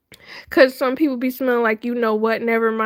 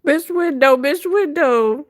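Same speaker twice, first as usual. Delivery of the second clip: drawn-out name; 3 semitones higher than usual. Real, not acted. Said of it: "I'm saying".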